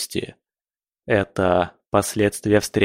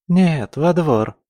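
laughing; 6 semitones higher, slower than usual. A narrator's reading. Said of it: "тут же рассмеялась она".

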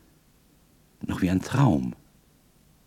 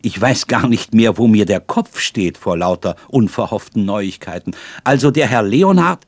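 excited; 3 semitones higher, 7 dB louder than usual. A narrator's reading. Overwhelmed by news.

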